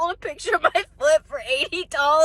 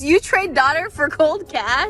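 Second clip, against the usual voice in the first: mock Indian accent; slower than usual. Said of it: "The Indian man's like".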